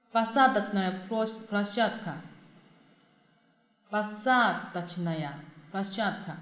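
посадочная площадка said slowly, syllables apart; slow model pronunciation. Shown as a demonstration. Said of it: "teacher models the phrase slowly".

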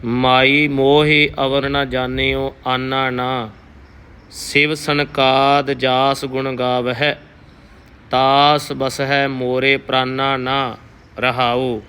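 slow, measured Gurbani reading; shabad recitation. Teacher reciting Kabir's shabad for the sangat, slow and careful. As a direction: read each word deliberately and reverently.

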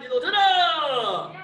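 slow, drawn-out count call with a laugh; sharp martial arts commands. Real, not acted.

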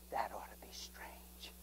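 slow, hushed whisper. Retold or imitated. Preacher whispering what the Lord told him. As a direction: say it under your breath, gravely. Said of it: "he whispered and said".

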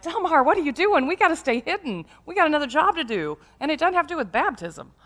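lightly acted scolding of a wayward brother; mildly alarmed brother. Worried brothers call out to Del Mar.

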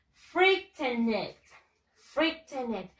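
frightened read as written, "freek-ten-ed"; spelling pronunciation of frightened; read as spelled. Shown as a demonstration. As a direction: say "frightened" with every written syllable, Spanish-style. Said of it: "Se escribe de esta manera".

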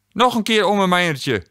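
put-on high gleeful child crowing nog een keer; crowing toddler. A narrator's reading. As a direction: squeal it like a delighted little girl. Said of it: "kraaide Kinge".

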